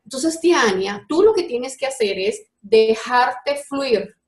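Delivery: put-on slow, spaced-out child's advice; patient explaining. Little boy advising Tiania to let go, slow explaining. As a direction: imitate a little one spelling it out slowly.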